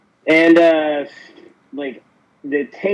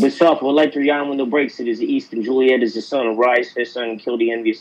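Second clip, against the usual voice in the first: Shakespeare in a Brooklyn accent. Shown as a demonstration. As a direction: recite it like a tough Brooklyn guy. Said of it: "Shakespeare monologues in the Brooklyn accent".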